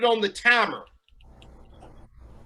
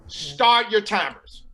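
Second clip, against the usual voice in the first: slow command; much slower than usual. Real, not acted. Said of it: "host gives the start cue".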